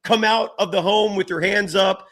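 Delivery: measured mock megaphone announcement; imitated police loudspeaker. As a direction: imitate police calling out a standoff. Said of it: "there's microphones yelling".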